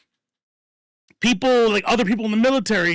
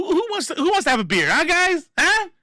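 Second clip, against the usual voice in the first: coaxing peacemaker; 11 semitones higher than usual. Pretend. Mock peacemaker coaxing a crowd.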